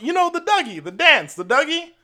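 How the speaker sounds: high, fluttery mock elderly lady voice; imitating a high-pitched elderly white lady; old lady imitation. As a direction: squeak it out like a sweet old grandma.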